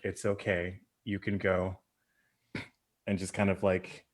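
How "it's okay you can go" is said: put-on soft, tender reassurance to a frightened child; gentle reassurance. Veronica soothing the orphaned boy at the wolf's side, tender and soft. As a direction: say it gently, kneeling to comfort him. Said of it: "be like".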